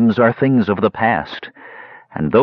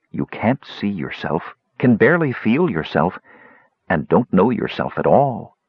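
casual contempt. Acted. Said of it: "casual contempt for weakness".

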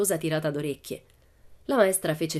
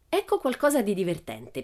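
lively; 4 semitones higher than usual. Acted. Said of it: "disse vivacemente".

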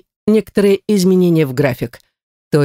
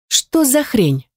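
startled; 6 semitones higher, much slower than usual. A narrator's reading. Heroine startled by the mark.

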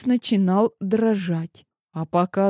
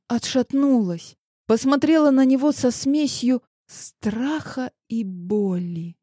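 ordinary delivery

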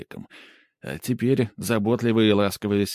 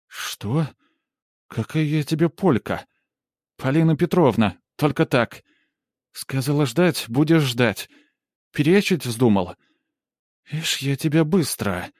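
higher, domineering woman's voice; commanding peasant matron, higher pitched; bossy village woman; 6 semitones higher than usual. Acted. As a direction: lord it over him as the imperious aunt. Polina bossing the hero.

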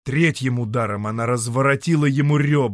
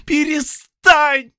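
slow, loud, much higher plea; pleading; 10 dB louder, much slower than usual. Acted. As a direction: beg him to stop. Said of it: "взмолилась Рихильда". (умоляюще, громко и протяжно)

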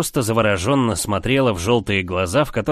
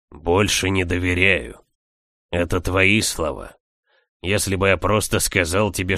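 low, measured reproach; calm male character voice; 3 semitones lower than usual. Acted. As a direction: lay out the argument calmly. Leo defends himself.

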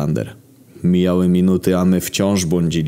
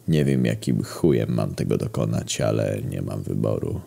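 put-on weary old sculptor; 4 semitones lower, 4 dB quieter than usual. Old sculptor laments his captivity.

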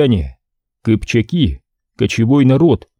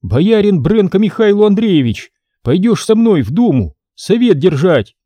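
grand formal pronouncement; important; 8 semitones higher than usual. Acted. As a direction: proclaim it with self-importance. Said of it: "изрёк важно".

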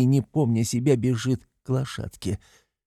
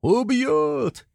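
alarmed cry; 11 semitones higher than usual. A narrator's reading. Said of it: "кричат кругом".

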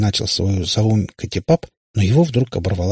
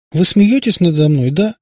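high, louder upset accusation; holding back tears; 10 semitones higher, 5 dB louder than usual. A narrator's reading. Katya thinks she is being mocked, near tears. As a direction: protest on the verge of tears. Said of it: "Катя уже с трудом сдерживала слёзы".

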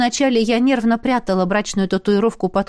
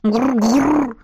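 growl; 2 semitones higher than usual. Acted. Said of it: "поддакнула Айна".

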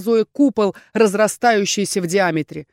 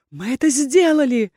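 a touch higher, happy cry; happy shout; 4 semitones higher than usual. A narrator's reading. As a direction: Erhan cheers the team, happy shout. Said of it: "счастливо выкрикнул Эрхан".

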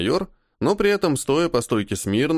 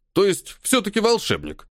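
ironic; 8 semitones higher than usual. A narrator's reading. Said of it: "с иронией посмотрел Бондаренко".

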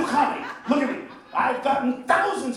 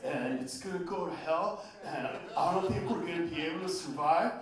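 lower, softer mopey complaint; lowered doom-and-gloom whine; gloomy middle-class American; 7 semitones lower, 11 dB quieter than usual. Retold or imitated. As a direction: mope it out like a worried suburbanite. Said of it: "Talk to a middle-class American".

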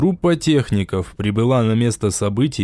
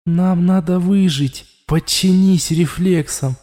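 higher, slowed, urgent voice within; inner voice taking over; 5 semitones higher than usual. A narrator's reading. The voice in Raul's head asks to take control, urgent. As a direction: coax him to give in. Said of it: "прозвучало в голове Рауля".

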